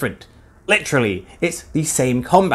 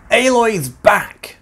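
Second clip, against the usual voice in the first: excited; 5 semitones higher, slower than usual. Acted. Hype announcement.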